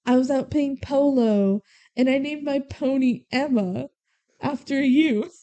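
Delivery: lightly imitated British lilt from an American; hint at a pretentious, would-be British accent; affected British inflection. An American trying hard to be fancy, faint British inflection. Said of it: "the inflection of a British accent".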